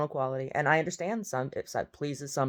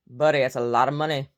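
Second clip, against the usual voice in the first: loud, punchy call to Buddy; loud mock address; 7 dB louder than usual. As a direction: hit it loud and sarcastic. Mocking George Santos.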